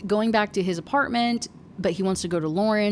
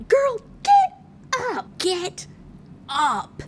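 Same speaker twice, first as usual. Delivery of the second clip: exasperated shout; 11 semitones higher, much slower than usual. Real, not acted. Reader yelling at the moping heroine to get up, in an exasperated shout. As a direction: yell at her to snap out of it.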